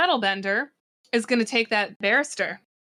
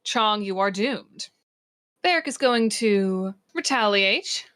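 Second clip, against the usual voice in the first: measured, deliberate scene-setting; game master narration. A narrator's reading. Game master narrating Varric's attack to players, dramatic narration. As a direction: announce each move with dramatic weight.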